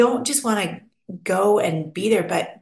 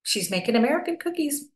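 delighted neighbors; 4 semitones higher than usual. Retold or imitated. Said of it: "They're like".

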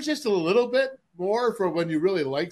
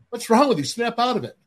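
gruff coach bark; 7 semitones higher, 4 dB louder, faster than usual. Retold or imitated. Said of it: "And he goes".

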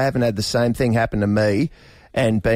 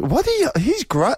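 high-pitched mock disgust; hammed-up revolted squeal; imitated disgust; 13 semitones higher than usual. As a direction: act out a partner recoiling in disgust. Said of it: "she actually went, "Ugh, he's gross".

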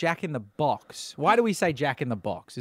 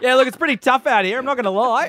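higher, louder mock street interview voice; louder, higher hard-done-by voice; playing down and out; 8 semitones higher, 6 dB louder than usual. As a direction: ham up the hard-luck bloke on camera. The speaker plays homeless man live.

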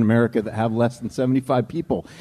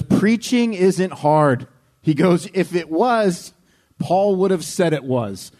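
put-on half-hearted Scottish accent; 4 semitones higher, much slower than usual. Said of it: "I can't do the accent".

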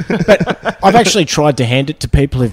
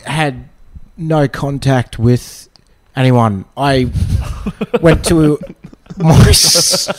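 halting, with long gaps between phrases; talking slowly; much slower than usual. Real, not acted. Guest telling hosts about the day, talking slowly. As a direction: feel slowly for each next word. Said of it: "sorry, I'm talking slow".

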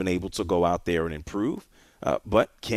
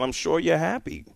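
to someone hard of hearing; 8 semitones higher than usual. Real, not acted. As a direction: speak up for a bad phone line. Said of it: "What? What?".

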